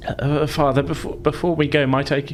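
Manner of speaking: lightly voiced timid son asking permission. Son addressing overseer father.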